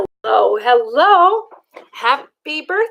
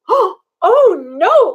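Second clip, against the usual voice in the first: high, louder mock dismay; Liza Lou crying out; 6 semitones higher, 4 dB louder than usual. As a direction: cry out in pretend alarm. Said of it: "cried Liza Lou".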